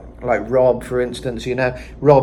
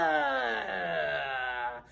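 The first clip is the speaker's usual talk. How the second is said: quiet gasp; 4 semitones higher, 15 dB quieter than usual. Shown as a demonstration. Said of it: "he really emphasizes that".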